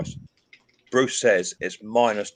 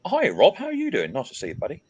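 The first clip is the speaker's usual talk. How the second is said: bright greeting; 7 semitones higher than usual. Real, not acted. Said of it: "greeting stream viewer".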